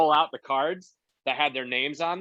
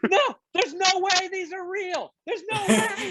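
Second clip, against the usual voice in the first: high, strained, near tears; panicked disbelief. Retold or imitated. Host backstage panicking over impossible names. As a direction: plead that it can't be real.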